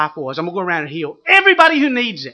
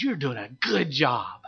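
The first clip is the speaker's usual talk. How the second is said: quiet, slow "You're doing a good job"; a low, soft word of encouragement; 3 semitones lower, 6 dB quieter, slower than usual. Retold or imitated. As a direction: gently encourage a struggling runner. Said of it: "Like that".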